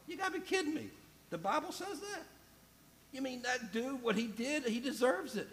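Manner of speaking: high, disbelieving mock protest; incredulous churchgoer. Preacher imitating his congregation, high and incredulous. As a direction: play the shocked listener who wants revenge. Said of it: "You're going".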